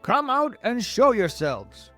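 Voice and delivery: loud, high, slow shouted command; shouted order. A narrator's reading. Police chief ordering strangers on the peach out, shouting. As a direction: shout it up to them, drawn out. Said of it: "shouted the chief of police".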